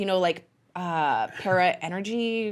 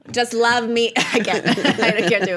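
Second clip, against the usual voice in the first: laughing; 2 semitones higher, 4 dB louder than usual. Real, not acted. Laughing through lines.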